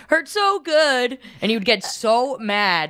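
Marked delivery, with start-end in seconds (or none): 0.1-1.2 much higher, slow drawn-out yell. Retold or imitated. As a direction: yell it out slowly and high. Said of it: "I would just start yelling".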